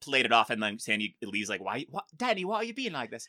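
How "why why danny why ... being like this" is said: attempted, terrible Australian accent. Retelling how Sandy leaves the scene: terrible Australian accent. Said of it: "That's terrible Australian".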